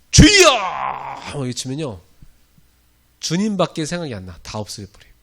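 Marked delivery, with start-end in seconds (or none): 0.1-0.5 full-throated high shout of 주여; shouted cry. Shown as a demonstration. Preacher leading the church in crying out, loud shout. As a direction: cry out to the Lord at full force. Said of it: "한 번 외칩시다".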